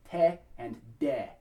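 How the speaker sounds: te and de, slow, tongue pressed to the back of the upper teeth; dental te and de. Shown as a demonstration. Coach drilling choir singers on te and de. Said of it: "Tongue pressed up against the back of the upper teeth".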